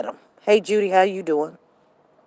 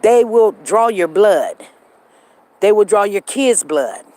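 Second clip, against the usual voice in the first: indignant; 5 dB louder than usual. Real, not acted. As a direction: hammer home the outrage. Outraged over blood draw for DNA.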